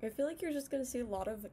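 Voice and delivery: speaking with lip stretched aside; talking while tugging cheek; finger pulling mouth corner. Real, not acted. Seen 2: Finger stretches mouth corner showing braces until 1.3s, then thumbs up.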